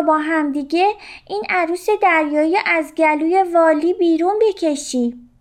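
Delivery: a little fish making an urgent plan. A narrator's reading.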